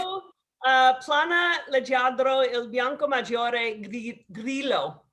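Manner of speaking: the wine name read slowly in careful Italian; measured Italian reading of the full label; proper Italian pronunciation. Shown as a demonstration. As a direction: enunciate each Italian word as a correction. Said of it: "please correct me".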